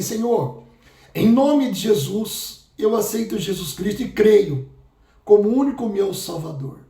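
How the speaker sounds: steady, earnest prayer for them to repeat; guided prayer. Acted. Pastor leading listeners in a prayer of salvation, earnest and steady. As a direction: lead the sinner's prayer line by line.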